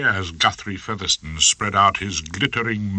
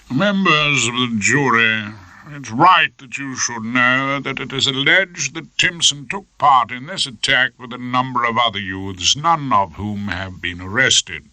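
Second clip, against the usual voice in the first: smooth purring barrister; 4 semitones higher than usual. Acted. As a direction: purr it to the jury like a suave prosecutor. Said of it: "Featherstone purred".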